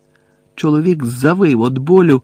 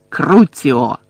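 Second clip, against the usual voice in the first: вигукнуте закляття; 4 dB louder than usual. A narrator's reading. Bellatrix casts torture curse.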